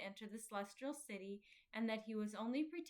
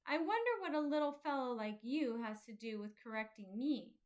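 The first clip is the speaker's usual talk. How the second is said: angry; 5 dB louder than usual. Acted. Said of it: "cried Talkative in an angry tone".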